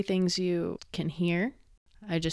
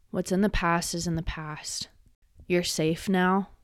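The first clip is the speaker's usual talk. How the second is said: reassuring whisper. Real, not acted. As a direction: whisper it like a promise of safety. Reassuring survivors of assault.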